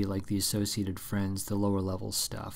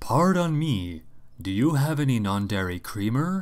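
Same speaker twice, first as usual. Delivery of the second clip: loud, put-on American accent; 3 semitones higher, 7 dB louder than usual. Showing an old impression of an impression, in an impression of an American accent. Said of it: "my impression of an impression of an American accent sounded like this".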